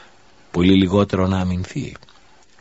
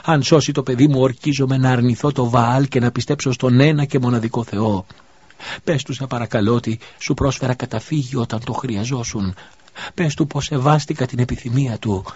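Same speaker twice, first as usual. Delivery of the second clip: desperate pleading; 5 semitones higher than usual. Acted. Widow swears an oath for her dying son, frantic pleading. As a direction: swear it through rising panic, begging. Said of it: "οικέτευσε πάλι η γυναίκα".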